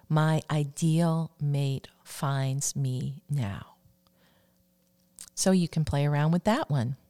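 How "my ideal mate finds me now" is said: slow affirmation. Shown as a demonstration. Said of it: "Or you could substitute".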